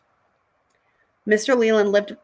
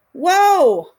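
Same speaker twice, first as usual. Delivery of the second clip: startled whoa; 9 semitones higher, 7 dB louder than usual. Acted. Startled by car horn.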